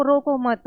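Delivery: "रोको मत" run together, falling at the end; रोको मत as one phrase. Shown as a demonstration. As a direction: say "रोको मत" as a single firm unit. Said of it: "दूसरे में हम कहते हैं".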